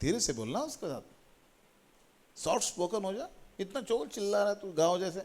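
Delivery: soft, lightly voiced mother's telling-off; a hint of reproachful mother; imitated scolding mother. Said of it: "mummy पीछे एक बार कही".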